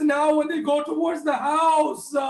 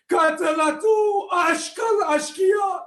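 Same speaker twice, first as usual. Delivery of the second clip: wailing lament; 4 semitones higher, slower than usual. Acted. Majlis recitation of the killing.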